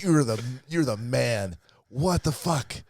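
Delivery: high, loud amazed retelling. Retold or imitated. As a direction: replay your shock at his gadget. Retold amazed reaction at bar.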